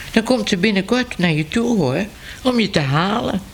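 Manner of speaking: a hint of a chatty cat passing on news; newsroom cat. Cat voiced higher in story.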